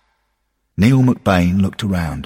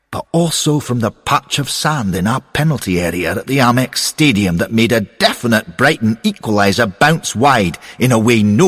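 a touch louder, earnest and insistent; lightly voiced eager character; 3 semitones higher, 4 dB louder than usual. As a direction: argue your readiness with rising energy. Voices McBain in the dialogue.

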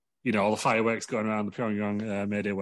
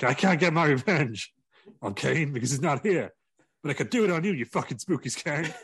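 mock villain threat; 5 semitones higher than usual. Chicken mascot threat.

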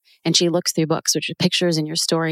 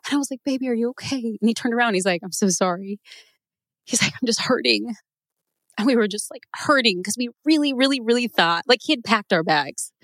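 higher, tearful voice, still talking through it; real tears pushing the pitch up; holding back tears; 4 semitones higher than usual. Real, not acted. Mother retelling her husband's heartbreak to the host, voice tearful and high. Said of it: "I don't know why I'm crying".

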